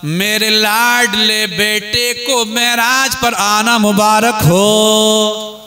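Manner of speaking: slow, sustained proclamation with a long drawn-out ending; proclaimed blessing. Acted. Ibrahim congratulating his beloved son on Meraj, proclaimed blessing. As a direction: stretch the blessing out, holding the last word.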